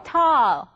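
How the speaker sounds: "tall" loud and drawn out with an open aw; model pronunciation. Shown as a demonstration. Teacher leading learners in a repeat drill, open-jawed model pronunciation. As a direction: drop the jaw wide and call out "tall". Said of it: "같이 한번 해보실래요?".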